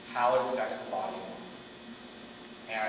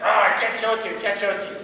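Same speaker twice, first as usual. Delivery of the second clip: frustrated teacher; 7 semitones higher, 8 dB louder than usual. Retold or imitated. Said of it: "He's like".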